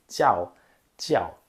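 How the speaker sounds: tchau with lips spread in a smile; smiling jiao. Shown as a demonstration. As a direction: lips wide like for a photo on tchau. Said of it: "e aí você vai ler assim".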